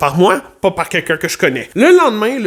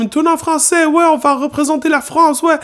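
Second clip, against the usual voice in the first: imitating French tourists; 12 semitones higher than usual. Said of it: "il y avait des Français".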